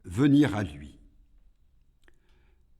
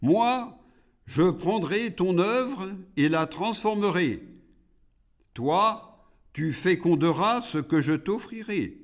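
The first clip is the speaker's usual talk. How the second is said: raised-pitch rebel demon; 9 semitones higher, 5 dB louder than usual. A narrator's reading. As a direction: set out terms as the challenger. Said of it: "dit le rebelle".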